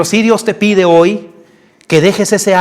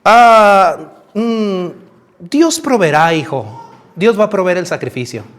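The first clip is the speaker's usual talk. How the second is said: pained father; slower than usual. Acted. Anguished father answers his son, hesitant and pained. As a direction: hold back grief while reassuring a son. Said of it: "Imagínate ese dolor del papá".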